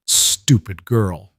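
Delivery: slow, contemptuous drawl of a villain; sneering villain. A narrator's reading. Marcus sneering down at Rowan, slow and contemptuous. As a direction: spit it out slowly with scorn. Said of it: "Marcus said".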